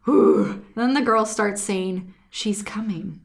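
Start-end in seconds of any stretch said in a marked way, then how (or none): 2.3-3.2 eerie retold whisper. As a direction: whisper it like the possessed girl. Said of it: "but whispering nonsense words".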